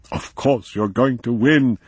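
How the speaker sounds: bright, eager and quick; excited. A narrator's reading. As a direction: cheer him on eagerly. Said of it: "he said excitedly".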